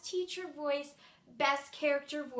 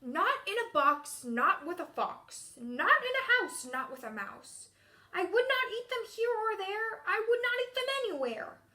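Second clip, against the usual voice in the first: grumpy character voice; 4 semitones higher, 3 dB louder than usual. Shown as a demonstration. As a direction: refuse each offer like a storybook grouch. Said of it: "I'm gonna use a grumpy voice".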